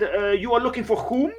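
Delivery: a hint of a suspicious doorman; stiff guard. Guards question the visitor.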